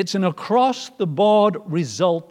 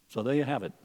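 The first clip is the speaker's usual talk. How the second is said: low, soft, understated wrap-up; quiet anticlimax; 6 semitones lower, 10 dB quieter, much faster than usual. Shown as a demonstration. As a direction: drop right down where a loud line is expected. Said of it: "expecting another loud statement".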